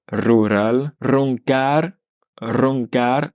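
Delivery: "roncar" strong initial r, light final r; rolled r. Shown as a demonstration. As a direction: trill the first r of "roncar". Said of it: "R fort quand on est au début du mot".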